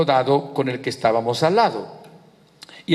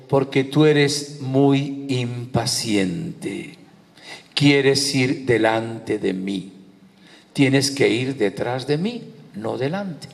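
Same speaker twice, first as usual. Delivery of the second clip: slow, weighty divine reproof; the Lord's answer; 2 semitones lower, much slower than usual. Retold or imitated. Preacher voicing the Lord correcting his impatience, slow and weighty. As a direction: spell it out slowly and gravely, as God correcting him.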